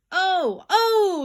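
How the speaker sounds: high, loud alarmed "oh, oh"; startled boy shouting; boy's yell. Acted. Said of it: "yelled the boy".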